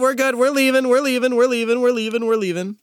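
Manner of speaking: high, flustered repetition; hurried placating. Acted. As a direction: back off fast, placating an angry golfer. Player hurriedly placates yelling golfer.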